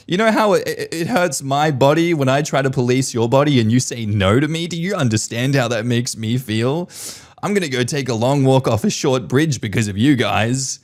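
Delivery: mock martyred mum. Mocking mum guilt trip.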